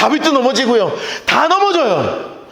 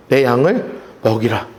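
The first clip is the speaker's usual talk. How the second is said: gentle low command; 12 semitones lower than usual. Retold or imitated. Jesus answers the third time. (베드로에게 예수님이 낮고 부드럽게)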